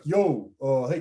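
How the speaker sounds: lightly put-on New York accent. Skeevy guy approaches a stranger in the Village, light New York accent. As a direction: give a casual street-hustler New York accent. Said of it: "that's my New York voice".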